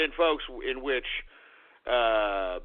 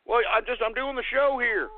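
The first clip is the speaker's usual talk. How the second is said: whiny crying; 5 semitones higher than usual. Acted. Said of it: "I got Templeton crying".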